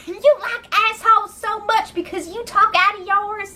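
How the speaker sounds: retold scream. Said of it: "So then Raven starts screaming".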